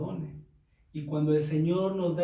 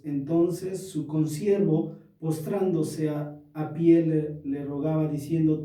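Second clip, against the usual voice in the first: scripture reading; 2 semitones lower than usual. Acted. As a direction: proclaim the verses to the congregation. Pastor reads Bible passage aloud.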